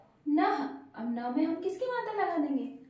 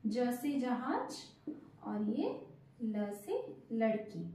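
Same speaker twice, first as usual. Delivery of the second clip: slow, lower letter-by-letter naming; slow spelling out; 4 semitones lower, 5 dB quieter, slower than usual. Shown as a demonstration. Teacher slowly spelling जल letter by letter. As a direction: spell each letter out for the kids. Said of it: "देखिए".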